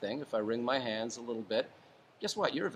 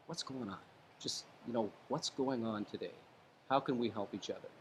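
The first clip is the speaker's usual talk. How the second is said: soft, calm hostage negotiator opening; 4 dB quieter than usual. Shown as a demonstration. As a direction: talk them down gently, softer. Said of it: "it comes out in your voice".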